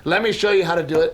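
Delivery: fast, insistent mock dad; Daddy Raymond. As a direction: lightly imitate a father-in-law taking over. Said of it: "He talks like this".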